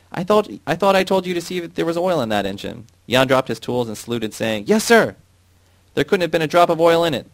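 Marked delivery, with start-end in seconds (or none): 0.1-2.8 high, loud accusing yell; angry shout. Acted. 4.7-5.2 sharp high military shout. Acted. Jan salutes, shouting again. 5.9-7.3 high, loud raging yell; furious shout. Acted. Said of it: "the foreman shouted".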